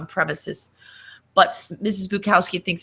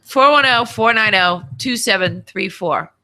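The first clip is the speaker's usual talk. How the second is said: dictating; 2 semitones higher, 4 dB louder than usual. Shown as a demonstration. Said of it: "You don't know my number by now?".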